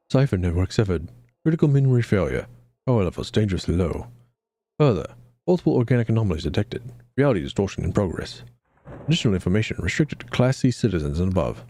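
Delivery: low, fast robotic status readout; flat clipped robot report; machine voice. Acted. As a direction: rattle it off like a failing computer.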